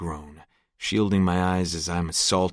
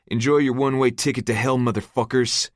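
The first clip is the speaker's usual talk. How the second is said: taunting; 5 semitones higher, 5 dB louder than usual. A narrator's reading. Taunting his trapped captors.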